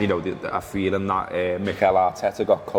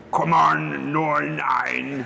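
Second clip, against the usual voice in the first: a higher hammed-up Northern Irish accent; mock Northern Irish; 5 semitones higher, much slower than usual. Host reading out a gift mug, hamming up a Northern Irish accent. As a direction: send up a Belfast mate's accent. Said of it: "taking the piss out of my accent".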